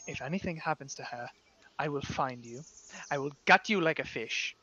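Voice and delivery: a calm, cold threat; a hint of a menacing father; threatening father. Father threatens daughter's companion.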